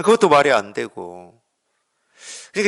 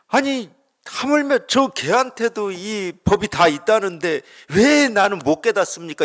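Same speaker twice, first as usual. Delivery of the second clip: higher, pleading question of a stuck seeker; frustrated seeker; 6 semitones higher than usual. Retold or imitated. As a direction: voice the seeker's exasperation. Monk voices frustrated seeker. (답답한 수행자의 높은 하소연)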